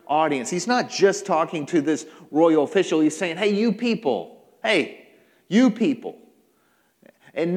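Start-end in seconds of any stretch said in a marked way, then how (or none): 3.3-6.2 mildly raised, addressing everyone; a touch of a public callout; calling out to a crowd. Acted. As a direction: hail the whole audience. Jesus addressing a wider crowd.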